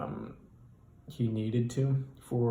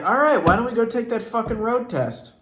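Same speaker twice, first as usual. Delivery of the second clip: higher and louder, briskly ending it; loud impatient cut-off; 11 semitones higher, 8 dB louder than usual. Retold or imitated. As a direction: break the silence with a loud push. Narrator cuts awkward silence.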